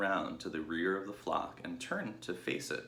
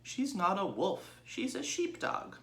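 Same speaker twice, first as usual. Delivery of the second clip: slow, higher, hurt little pig; rather hurt; 13 semitones higher than usual. Acted. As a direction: defend his foster mother, wounded. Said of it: "in a rather hurt voice".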